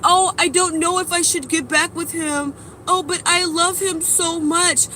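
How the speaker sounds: hammed-up lovesick dithering; mock whine of a lovesick friend; mocking whiny friend. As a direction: mimic a friend who can't leave him.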